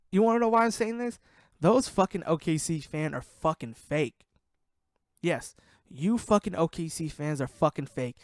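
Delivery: worked-up, accusing outburst; angry rant. Real, not acted. Podcaster telling off fake OKC fans, angry rant. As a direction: lay into them, hard emphasis on the insults.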